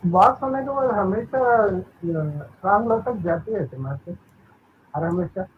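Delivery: echoey call audio. Real, not acted. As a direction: voice echoing on a bad line. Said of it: "वो इको आ रहा है".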